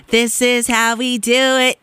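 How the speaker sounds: slow, stretched-out delivery; slow playful repeat, lingering on the words; drawn-out catchphrase. Real, not acted. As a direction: stretch every word like a party chant.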